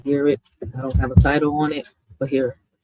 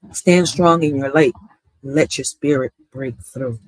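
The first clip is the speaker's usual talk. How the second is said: poem recitation. Acted. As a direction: read each line of "In a world where fairness fades" as a measured poem, with pauses between lines.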